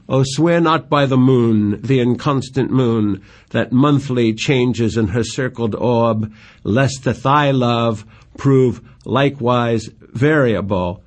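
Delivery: slow, measured verse recital; reciting Shakespeare with care; poem reading. Acted. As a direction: read the lines like a lover's plea. Reads Juliet's verse aloud.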